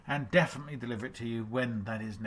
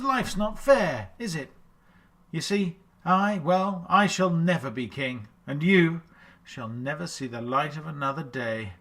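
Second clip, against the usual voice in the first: villain voice; 3 semitones higher, 5 dB louder than usual. Acted. Villain quote from film.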